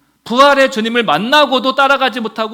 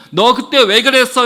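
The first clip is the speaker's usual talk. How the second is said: loud, mildly scolding question; mock scolding shout; 3 semitones higher, 5 dB louder than usual. What the mother would not yell at her son, scolding. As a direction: fire it off like a reproachful parent. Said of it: "이렇게 소리치지 않으시고".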